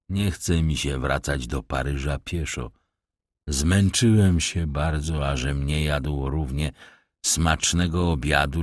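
a sly beggar bowing with false politeness; rough vagrant voice. Acted. Stranger asks to be driven.

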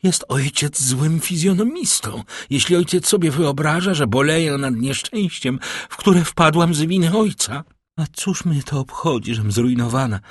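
a lightly voiced spirited young singer; defiant daughter. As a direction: let pride lift the pitch throughout.

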